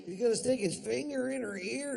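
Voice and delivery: put-on high, loud puzzled kid voice; mock naive kid question; high puzzled friend.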